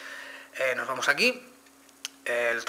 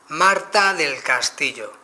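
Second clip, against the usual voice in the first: "Marta del Castillo" slow, louder, well articulated; careful clear dictation; 2 semitones higher, 5 dB louder, much slower than usual. Shown as a demonstration. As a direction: dictate it slowly and clearly into the mic. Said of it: "Es recomendable siempre vocalizar".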